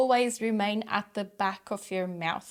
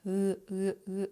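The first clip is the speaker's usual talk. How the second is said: oo sound demo. Shown as a demonstration. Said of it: "would produce this oo sound".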